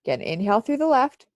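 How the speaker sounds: stuffy, congested voice; blocked nose. Real, not acted. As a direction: speak through a blocked nose. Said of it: "Sorry guys, I'm congested".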